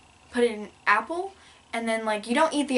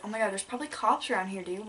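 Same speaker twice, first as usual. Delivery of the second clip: fast anxious whisper; retold frightened whisper; panicked whisper; 2 semitones lower, 6 dB quieter than usual. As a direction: hiss it so no cop hears. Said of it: "'cause I was like".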